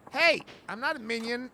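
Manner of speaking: loud indignant objection; a loud, offended denial; indignant protest. Acted. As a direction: snap back, offended at the label. Accused of being a minion.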